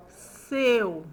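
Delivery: SEU stretched as one syllable; one long, unbroken SEU; slow deliberate word. Shown as a demonstration. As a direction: model SEU slowly for pupils to join in. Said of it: "Fala junto comigo".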